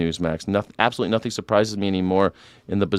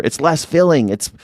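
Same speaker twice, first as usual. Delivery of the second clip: put-on higher, bubbly ad-girl voice; mock the beer commercial girls arguing; a light parody of the old beer ad; bikini beer ad girls; 5 semitones higher than usual. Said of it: "girls in bikinis arguing about beer".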